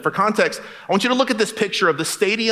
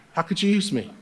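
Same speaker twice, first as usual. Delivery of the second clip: laughing aside; 4 dB quieter than usual. Shown as a demonstration. Quiet laughing repeat of joke.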